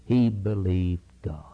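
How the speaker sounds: whispered, hushed and low; reverent whisper. Acted. Preacher to church, whispering Abraham's faith. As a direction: drop to a whisper for the key truth.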